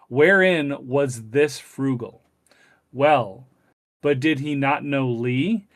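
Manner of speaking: put-on measured, deliberate reading of an old text; stately recitation with drawn-out key words; formal read-aloud. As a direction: read the passage out slowly, phrase by phrase.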